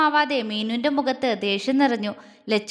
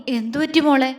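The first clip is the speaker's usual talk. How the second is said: concerned repeat question; 4 dB louder than usual. A narrator's reading. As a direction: ask with steady, contained worry. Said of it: "അവൻ വീണ്ടും ചോദിച്ചു".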